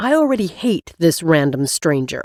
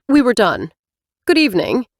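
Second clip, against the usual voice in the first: louder curt dismissal; snapping; 5 semitones higher, 4 dB louder than usual. Acted. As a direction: cut him off with a cold snap. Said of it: "she snaps".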